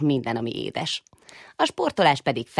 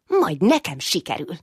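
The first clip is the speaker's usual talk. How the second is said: proud; 4 semitones higher, 4 dB louder than usual. Acted. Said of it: "húzta ki magát büszkén".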